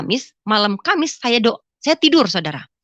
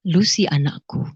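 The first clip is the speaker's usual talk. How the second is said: lower, authoritative voice of God; suara berwibawa; 5 semitones lower than usual. Retold or imitated. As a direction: imitate a commanding fatherly voice. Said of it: "dengan wibawa sekali". (suara Tuhan yang berwibawa)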